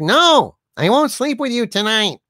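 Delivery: light, mild mock yell, pitched high. Telling a joke, voicing the woman answering the man in a bar: yelling. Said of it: "She yells back".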